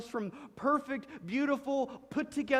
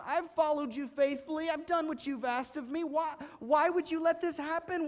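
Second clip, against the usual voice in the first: higher, louder anguished pleading; higher, louder desperate questioning of God; 8 semitones higher, 4 dB louder than usual. Retold or imitated. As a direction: cry out to God like a hurt believer. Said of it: "we're kinda like".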